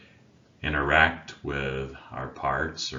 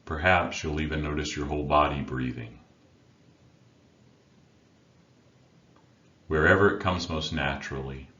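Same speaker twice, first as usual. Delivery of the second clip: unhurried meditation guide with long pauses between phrases; guided meditation. Acted. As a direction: guide listeners inward, leaving silence after each instruction. Leads a meditation.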